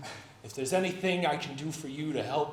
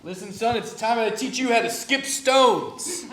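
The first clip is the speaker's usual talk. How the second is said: proud fatherly voice; mafia father; 7 semitones higher, 8 dB louder than usual. Acted. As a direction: lecture a son grandly. Playing a mafia father figure.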